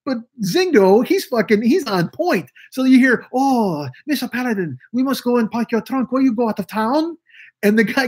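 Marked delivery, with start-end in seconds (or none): 3.3-7.2 higher, caricatured servant voice; Hey Boy voice. Retold or imitated. Radio servant fussing over packing his boss's trunk, high voice. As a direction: squeak out the sidekick's lines to his boss. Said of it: "he talked like that".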